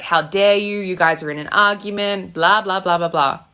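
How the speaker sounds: hammed-up indignant other person; mock outrage. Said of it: "And it's like".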